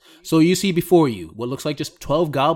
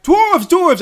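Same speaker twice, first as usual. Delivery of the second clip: high, loud goblin cries; distant goblin alarm; 11 dB louder than usual. Acted. Goblins further back raising the alarm, high shouting. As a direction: pass the alarm along in a high yell. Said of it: "you hear further back".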